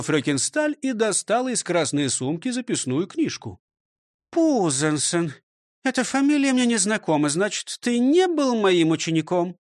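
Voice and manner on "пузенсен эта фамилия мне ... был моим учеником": higher, scolding schoolmistress voice; stern old teacher. Acted. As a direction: lecture him like a strict teacher. Teacher questions manager. (строгая учительница)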